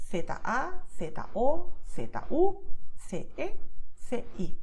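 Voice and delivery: Castilian Spanish letter names, lisped "th" for Z and C. Shown as a demonstration. Teacher showing her own Castilian pronunciation, Castilian lisped Z and C. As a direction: spell it in Castilian, Z as "theta". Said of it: "my way of pronouncing Castilian Spanish".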